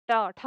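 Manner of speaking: ट, ठ struck hard, with the tongue curled back; hard retroflex sounds. Shown as a demonstration. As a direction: snap out ट, ठ firmly. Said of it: "सख्त निकलता है हमारे मुंह से". (ट, ठ सख्त मूर्धन्य उच्चारण)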